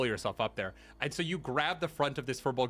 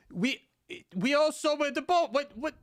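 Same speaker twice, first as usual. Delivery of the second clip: higher, scoffing outrage; indignant referee voice; 12 semitones higher than usual. Acted. Stilt-walker scolds the players for obvious magic, indignant. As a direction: call out the cheat, incredulous.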